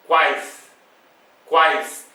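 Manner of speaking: quais as one syllable, falling; one single burst. Shown as a demonstration. Teacher showing quais comes out at once, quais in one burst. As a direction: say each quais in one go, pause between. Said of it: "Observem aqui eu pronunciando".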